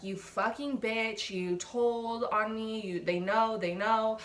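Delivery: mild mock fury, words dragged out; flipping out. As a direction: imitate a friend flipping out, stretching the accusations. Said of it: "and he flips out".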